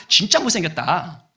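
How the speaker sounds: jeering ducks, lightly acted; mock teasing. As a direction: tease with a laughing edge. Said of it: "다 놀리는 거예요".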